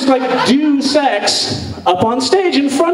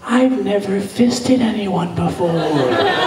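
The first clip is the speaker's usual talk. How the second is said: inner panic; 2 semitones lower, slower than usual. Retold or imitated. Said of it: "But inside, I was like".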